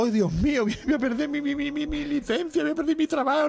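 high, wailing panicked chauffeur; hammed-up fake sobbing chauffeur; mock crying. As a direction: whimper it out in a put-on high voice of despair. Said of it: "El chofer atrás llorando".

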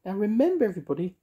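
high, sing-song witchy voice; bright, bossy little witch. Acted. Mavis voiced in story.

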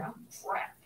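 soft voiceless oh crap; whispered mock dismay. Teacher voicing candy makers facing rising sugar prices, whispered mock dismay.

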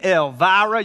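Elvira in a Southern drawl, "El-VAH-ra" with a flat ah. Shown as a demonstration. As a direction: stretch Elvira out Southern style, vira like "vah-ra". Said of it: "you gotta say it with a southern drawl".

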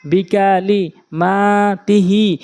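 short বিকা লি, then মা and হি held long; quick then drawn out. Shown as a demonstration. Teacher contrasting harakat with madd, long vowels held. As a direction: stretch only মা and the হি of তিহি. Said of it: "এক আলিফ টেনে পড়তে হবে".

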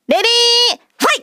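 match start call. Real, not acted. Host starting the arm-wrestling match, calling out.

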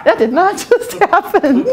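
high, slow and loud through laughter; laughing denial. Real, not acted. Denying the dishwasher broke, laughing insistently. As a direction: deny it while cracking up, stretching the words.

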